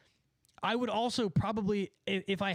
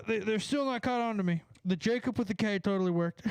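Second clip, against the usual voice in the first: gleeful shout; 3 semitones higher than usual. Real, not acted. Triumphant over the prank.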